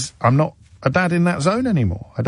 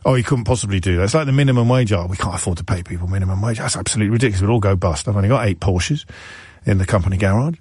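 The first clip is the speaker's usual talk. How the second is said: lower, fast sneering business-owner whine; mocking pompous boss; 4 semitones lower, faster than usual. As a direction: lampoon a complaining employer. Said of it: "makes a mockery of those right-wing arguments".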